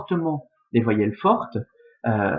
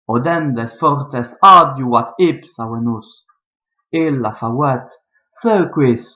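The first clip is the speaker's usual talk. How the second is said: récitation scandée. Shown as a demonstration. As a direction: lecture lente et rythmée du latin, avec pauses. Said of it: "Donc je vais vous le faire". (poème latin scandé avec expression)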